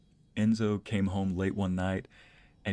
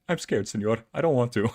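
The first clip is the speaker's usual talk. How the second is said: mock scared whine; 3 semitones higher, 6 dB louder than usual. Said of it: "He's like".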